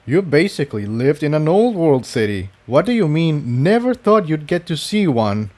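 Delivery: a hint of a quizzical young stallion; lightly voiced, puzzled question; puzzled Jigsaw.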